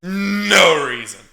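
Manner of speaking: mock cry shout. Real, not acted. Exclaims no reason, laughing.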